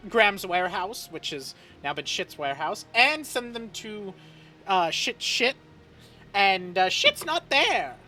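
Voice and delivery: put-on high, flustered old butler; fussy servant voice.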